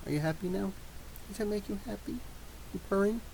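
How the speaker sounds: gentle coo; soft pet-talk. Real, not acted. Asking pet if comfortable.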